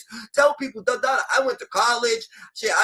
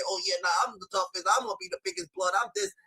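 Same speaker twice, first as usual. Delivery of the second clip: mocking boast; 3 semitones lower, faster than usual. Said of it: "You wanna fucking say".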